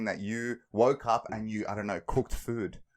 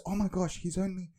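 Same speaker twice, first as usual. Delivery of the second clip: high-pitched, half-asleep mock complaint; protesting; 7 semitones higher than usual. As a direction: imitate wife protesting to a flight attendant. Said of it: "like she's protesting".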